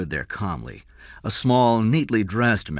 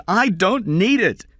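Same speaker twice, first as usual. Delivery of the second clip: higher, slow, a mild mock scream; 8 dB louder than usual. A narrator's reading. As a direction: push back, rising, not full volume. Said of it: "Kathy screamed".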